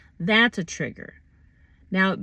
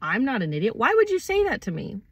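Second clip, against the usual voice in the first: indignant; 4 semitones higher, faster than usual. Acted. Acted retort to being insulted.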